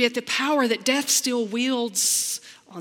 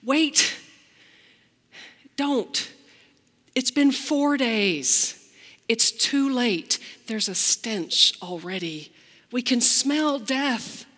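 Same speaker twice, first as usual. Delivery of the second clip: louder, urgent then slow; alarmed protest; 3 semitones higher, 3 dB louder, slower than usual. Acted. Martha stopping Jesus at the tomb, alarmed and urgent. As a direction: stop him, it's too late. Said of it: "Martha, I think, speaks for all of us".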